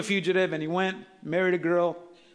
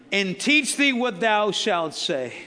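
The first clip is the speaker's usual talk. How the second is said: slow, weighty proclamation; emphatic scripture reading; 2 semitones higher, 3 dB louder, much slower than usual. A narrator's reading. Preacher resuming the verse for the congregation, slow emphatic reading. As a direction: read it out slowly, stretching each word.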